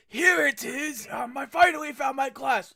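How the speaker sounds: triumphant discovery. Acted. Character calling out in hallway.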